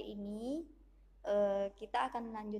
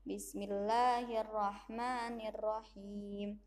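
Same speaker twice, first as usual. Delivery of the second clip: slow recitation; much slower than usual. Shown as a demonstration. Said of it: "Bunda contohkan".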